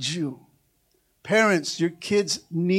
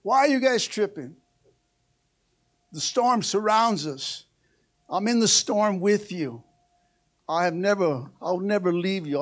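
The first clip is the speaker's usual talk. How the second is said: calm reassuring Jesus. Retold or imitated. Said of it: "And he goes".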